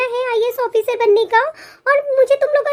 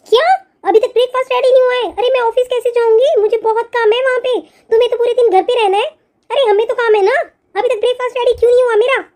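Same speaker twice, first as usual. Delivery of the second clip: impatient scolding; 4 dB louder than usual. Acted. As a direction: nag the bride about breakfast. Sister-in-law demands breakfast.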